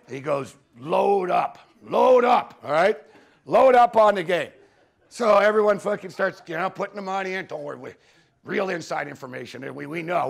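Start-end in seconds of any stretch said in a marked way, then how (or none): 0.8-4.5 louder, pushy mock urging; urgent tip-off. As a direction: push your friends to bet it all now. Buddy urging bets on phone.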